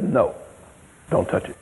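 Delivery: low, hushed firm warning; hushed warning to the boy; quiet warning. Retold or imitated. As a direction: say it soft and deadly serious. Warning the boy quietly, gun cocked.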